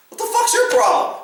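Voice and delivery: high, sharp confrontational demand; angry challenge. Retold or imitated. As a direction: snap at the suspect. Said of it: "I'm kinda like".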